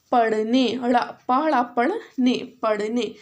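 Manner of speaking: पढ़ने repeated, with ड़ा split out; teacher drilling पढ़ने; sounding out. Shown as a demonstration. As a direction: break पढ़ने apart, then say it whole. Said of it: "you have to read and then you have to repeat".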